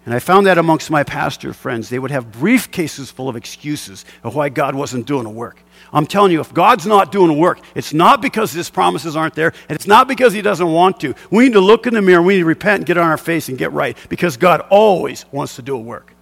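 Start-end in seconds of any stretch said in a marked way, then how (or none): 5.9-13.2 preaching. Real, not acted. Preacher building to a rebuke.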